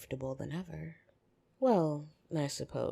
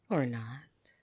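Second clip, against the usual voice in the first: a sly whispered aside; playful whisper; 5 dB louder than usual. Acted. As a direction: tease them under your breath.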